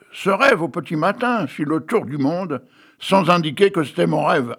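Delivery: reading his own tale aloud with flourish; lightly dramatic storyteller reading; story reading. Acted. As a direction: read it like a whimsical fable.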